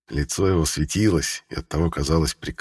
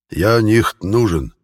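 put-on slow, louder German-accented cry; 4 semitones higher, 5 dB louder, much slower than usual. A narrator's reading. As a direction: mangle the Russian like a German. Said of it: "он чудовищно коверкал слова".

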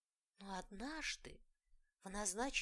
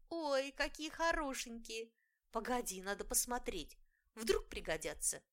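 bright excited little fairy; a touch of delight over pretty buttons; pixie; 4 semitones higher, 4 dB louder than usual. Acted. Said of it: "звонкий голосок маленькой феечки".

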